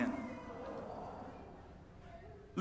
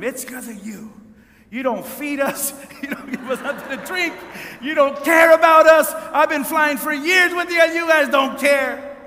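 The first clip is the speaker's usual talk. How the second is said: building to a loud, high rant; imitated yelling; 6 semitones higher, 8 dB louder than usual. Upset woman yelling at airline worker, building anger. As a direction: start held back, then shout the accusations. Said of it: "she's yelling at him".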